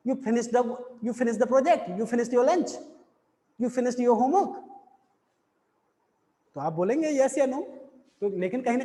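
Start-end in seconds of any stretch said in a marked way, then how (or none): 1.0-4.6 rising end on project, lunch, homework; short checking questions that climb on project, lunch, homework; asking intonation. Shown as a demonstration. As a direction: ask each one, lifting the last word: project, lunch, homework. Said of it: "यानी मैं पूछ रहा हूँ".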